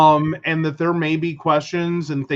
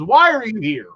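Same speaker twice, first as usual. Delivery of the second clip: incredulous; 5 semitones higher than usual. Retold or imitated. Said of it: "That was my next question".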